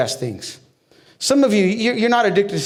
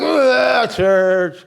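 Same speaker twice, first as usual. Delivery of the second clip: fed-up groan; 3 semitones higher, much slower than usual. Retold or imitated. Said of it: "You'll be like".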